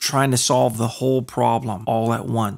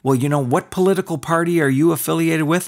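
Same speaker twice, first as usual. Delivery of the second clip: higher mock voice of a prejudiced person; mock bigot; 4 semitones higher, faster than usual. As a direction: play a prejudiced stranger, raised pitch. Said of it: "Based on".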